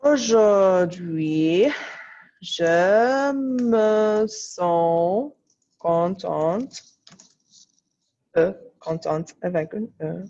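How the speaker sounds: each word drawn out slowly as she writes; slow dictation. Acted. Teacher dictating slowly to her class as she writes.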